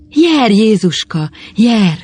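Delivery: high, slow, drawn-out sigh of awe; stretched, wondering exclamation. A narrator's reading. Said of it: "sóhajtotta tompán Vjuk".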